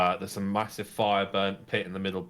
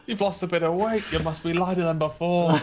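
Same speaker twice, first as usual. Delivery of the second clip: jovial dwarf; 9 semitones higher, 5 dB louder than usual. Acted. Dwarf greets and jostles the hero.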